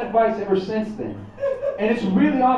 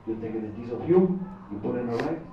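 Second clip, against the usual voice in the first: put-on Mexican dad accent; 8 semitones lower, 6 dB quieter than usual. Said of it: "speaks with a wicked accent".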